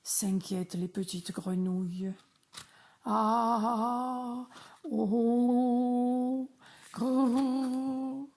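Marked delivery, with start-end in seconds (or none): 3.0-8.3 louder, higher mock ogre growl; big growly voice. Dad shows the kids his big voice, hammed-up growl. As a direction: growl it out like a storybook monster. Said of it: "ça c'est de la grosse voix".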